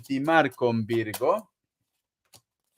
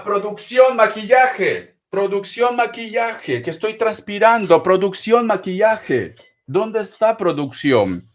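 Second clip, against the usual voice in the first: calling out; 3 semitones higher, 5 dB louder than usual. Real, not acted. Calling crew for makeup, sweating.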